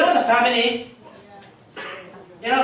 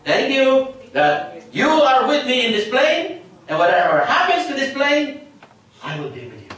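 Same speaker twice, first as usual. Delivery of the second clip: confident thankful prayer; 4 semitones higher, 3 dB louder than usual. Shown as a demonstration. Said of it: "your prayer should be like this".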